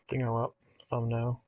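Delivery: ordinary delivery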